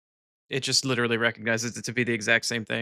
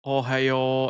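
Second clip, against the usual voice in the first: "Ohio" with a light mock Japanese accent; imitated Japanese accent. Streamer echoing the TTS bot, light Japanese accent. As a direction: copy a bot's careful Japanese-accented "Ohio". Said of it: "It actually does have a bit of an accent".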